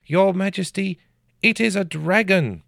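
frightened peasant. A narrator's reading. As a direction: babble it out in terror. Frightened peasant reports dragon.

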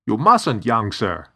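high, loud protest; urgent cry. Acted. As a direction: cry out to stop the young master. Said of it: "Khan cried".

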